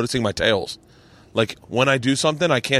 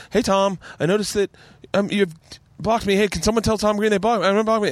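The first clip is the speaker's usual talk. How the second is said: higher-pitched mock plea; retold anxious appeal; 8 semitones higher than usual. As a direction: act out a needy public tweet, pitched up. Retold anxious tweets to Tom Green.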